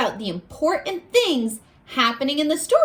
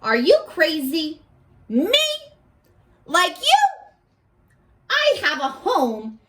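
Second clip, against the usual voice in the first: lightly voiced scornful kid. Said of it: "now it's the kid talking".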